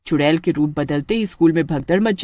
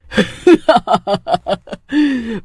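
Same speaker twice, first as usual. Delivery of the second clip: witch laughing; 3 semitones higher than usual. Acted. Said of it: "चुड़ैल हंसने लगती है".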